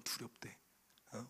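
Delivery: breathy whisper repeating the word; whispered echo. Retold or imitated. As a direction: drop to a whisper, almost to yourself. Echoing the nurses' fear. (속삭이듯 되뇌는)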